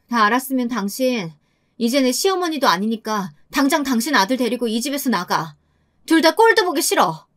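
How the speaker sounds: firm order rising to disgust; angry dismissal. Acted. Wife ordering mother-in-law and husband out, mildly angry. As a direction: throw them out, pitch jumping at the end.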